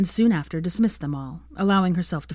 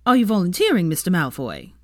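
loud, suspicious challenge; 4 dB louder than usual. Acted. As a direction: catch him out, half in disbelief. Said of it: "raising a brow in suspicion".

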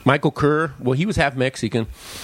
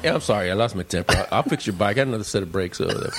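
apologetic; 4 semitones lower, faster than usual. Retold or imitated. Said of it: "then he's apologizing".

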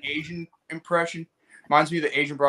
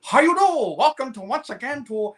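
high-pitched Asian-accent weatherman impression; hammed-up Asian accent, pitched high; caricatured Asian accent; 7 semitones higher than usual. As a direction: imitate a Jerry Lewis-style Asian-accented forecaster. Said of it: "like a Asian weatherman going".

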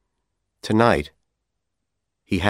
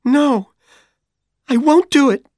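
1 furious refusal; 7 dB louder than usual. A narrator's reading. Dorothy refusing, near tears.

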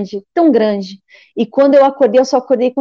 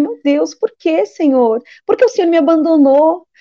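higher-pitched retold cry of abandonment; tearful pleading; 5 semitones higher than usual. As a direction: reenact an anguished, questioning plea to God. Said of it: "comecei a chorar".

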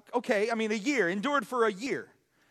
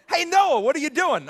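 higher, louder call to Noah; neighbour calling out; 4 semitones higher, 6 dB louder than usual. Retold or imitated. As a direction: call over to him, half teasing.

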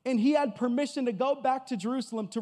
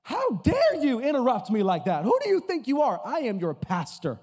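hammed-up indignant pastor, lightly louder; mock offended pastor; 4 dB louder than usual. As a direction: play the affronted big shot for laughs. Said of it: "he rudely interrupts me".

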